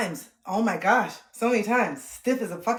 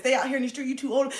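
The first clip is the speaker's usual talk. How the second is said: mom scolding; 5 semitones higher, faster than usual. Retold or imitated. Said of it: "my mom said".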